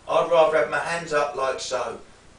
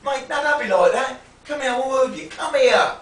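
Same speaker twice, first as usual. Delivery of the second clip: loud, higher insistent aggressor; pushy geezer; 7 semitones higher, 7 dB louder than usual. Shown as a demonstration. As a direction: press in, won't take no. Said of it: "the guy's being".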